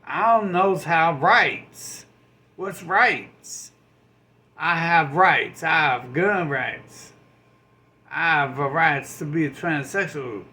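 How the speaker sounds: dumb student voice. Retold or imitated. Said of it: "And be like".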